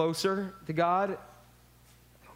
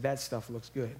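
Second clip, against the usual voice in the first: hushed desperate hunger; 9 semitones lower, 8 dB quieter than usual. Retold or imitated. Hungry son at pig slop.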